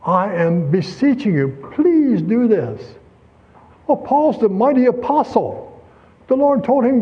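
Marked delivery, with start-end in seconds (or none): 0.0-3.0 slow, gentle pleading; beseeching. Retold or imitated. Paul gently pleading with his church, slow and earnest. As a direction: coax them kindly, drawing it out. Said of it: "No, not that".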